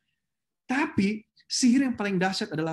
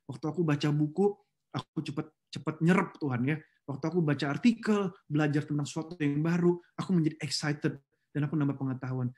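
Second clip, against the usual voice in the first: humble prayer; 4 semitones lower than usual. Shown as a demonstration. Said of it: "minta sama Tuhan bahwa".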